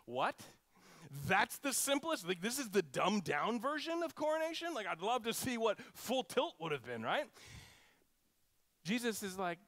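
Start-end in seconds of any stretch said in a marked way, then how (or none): 0.1-7.0 incredulous. Pretend. Listener reacting to a cheap coronation.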